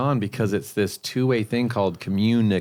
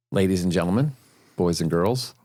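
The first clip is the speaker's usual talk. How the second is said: lightly voiced showman pitch; Chris impression; 2 semitones lower than usual. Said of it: "That was Chris's line".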